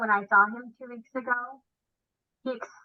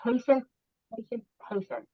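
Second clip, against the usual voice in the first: soothing quiet; 2 semitones higher, 5 dB quieter than usual. Retold or imitated. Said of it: "I'm like".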